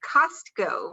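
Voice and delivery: Costco said as KOSS-koh, with an open first vowel; corrected pronunciation. Shown as a demonstration. Host checking Brian's name for the city, careful pronunciation. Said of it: "Costco is the correct pronunciation".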